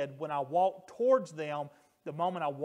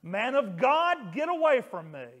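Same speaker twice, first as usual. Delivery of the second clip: mock scream; 4 semitones higher, 4 dB louder than usual. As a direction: shout it like a possessed voice recoiling. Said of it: "that person started screaming the following".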